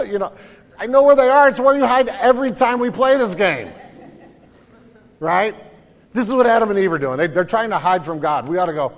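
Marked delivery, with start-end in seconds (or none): none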